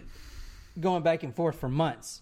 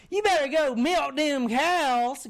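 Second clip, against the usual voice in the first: higher, louder, drawn-out nagging order; retold bossy wife; 9 semitones higher, 6 dB louder, slower than usual. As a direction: nag him to get moving, slowly. Retold wife ordering husband about.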